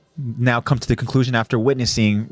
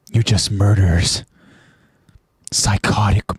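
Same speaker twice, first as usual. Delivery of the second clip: bitter disbelief. Acted. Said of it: "he reacts".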